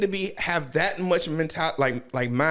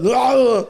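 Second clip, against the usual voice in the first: loud shouted cry; loud mock scream; 9 semitones higher, 10 dB louder than usual. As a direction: yell out in pain. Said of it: "He's like".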